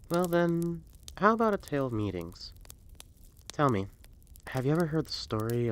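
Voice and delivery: a fireside storyteller greeting a visitor; storyteller Hale by the fire; traveling storyteller. Acted. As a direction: draw the listener in like an old tale-teller. Storyteller framing the tale.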